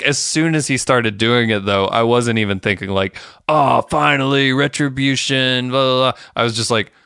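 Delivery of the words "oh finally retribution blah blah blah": higher-pitched, mildly hammed-up rejoicing; lightly mocking imagined celebration; mock relief. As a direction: pretend to cheer, then wave it away. Mocks a reaction they didn't have.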